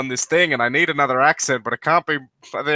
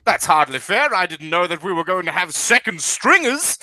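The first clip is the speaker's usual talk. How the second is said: put-on lightly indignant British accent; big British guy. British mech pilot complains of being outnumbered, indignant British accent. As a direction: protest like an affronted Brit. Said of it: "it's a big British guy".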